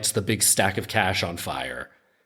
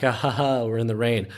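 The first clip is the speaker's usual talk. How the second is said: mock laughter; 3 semitones higher than usual. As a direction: imitate a crowd laughing along, sarcastically. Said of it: "everyone would laugh".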